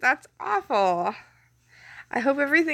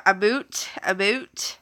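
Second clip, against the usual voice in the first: stereotyped Canadian "about", said as "A boot"; Canadian accent; slower than usual. Shown as a demonstration. Streamer testing words for viewers mocking her, Canadian accent. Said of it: "mock my Canadian accent".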